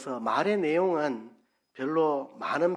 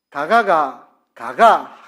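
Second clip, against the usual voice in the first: louder Gyeongsang intonation "가가, 가가"; 11 dB louder, much slower than usual. Shown as a demonstration. Preacher demonstrating dialect, a loud Gyeongsang "가가". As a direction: sing the "가가" tones the Gyeongsang way. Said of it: "제가 해볼게요".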